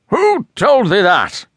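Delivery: a captain caught off guard, crying out; cried out. A narrator's reading. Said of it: "cried Ahab".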